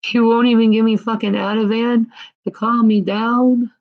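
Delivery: real frustrated protest; indignant rant. Real, not acted. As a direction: demand it in disbelief. Ranting at the hospital staff.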